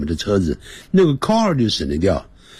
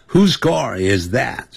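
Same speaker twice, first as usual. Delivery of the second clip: 慢速示范问句; 2 semitones higher, slower than usual. Shown as a demonstration. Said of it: "倒装".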